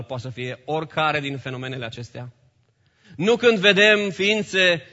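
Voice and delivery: normal talking voice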